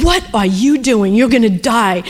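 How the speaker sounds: re-enacted stern warning; retold rebuke. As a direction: confront her like a worried mother. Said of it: "And I rebuked her".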